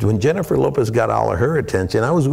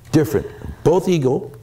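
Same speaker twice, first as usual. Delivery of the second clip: ordinary talk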